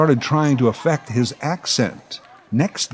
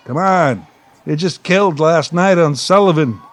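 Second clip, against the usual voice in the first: put-on exasperated kid pleading; 4 semitones higher than usual. Kid protesting to playground friends, exasperated. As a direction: insist the joke killed.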